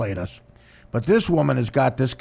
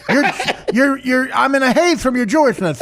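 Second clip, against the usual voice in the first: ranting husband; 9 semitones higher than usual. Retold or imitated. Voiced husband ranting at Lauer.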